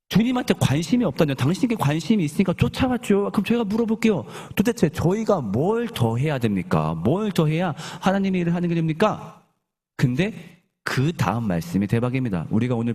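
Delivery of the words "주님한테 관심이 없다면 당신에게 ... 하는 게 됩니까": lightly acted, higher-pitched protest; mild mock exasperation. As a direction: push back like an indignant follower. Acted crowd protesting to Jesus.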